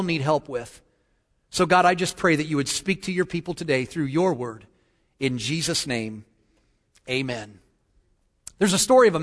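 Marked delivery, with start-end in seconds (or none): 1.5-7.6 subdued prayer, settling lower and softer; closing prayer. Real, not acted. Pastor prays for his people in Jesus' name, subdued closing prayer. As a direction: bring the prayer gently down to its amen.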